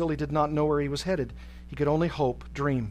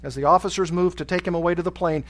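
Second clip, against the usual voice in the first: ordinary delivery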